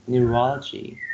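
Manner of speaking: neurology stressed on its second syllable, RO; teacher's model neu-RO-lo-gy for neurology. Shown as a demonstration. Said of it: "the second syllable receives the stress".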